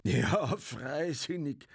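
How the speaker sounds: high, drawn-out, sarcastic echo; derisive, lingering repeat; scornful interruption. A narrator's reading. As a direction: cut in and stretch the word mockingly. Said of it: "fiel Bartlett dem Sepp in die Rede".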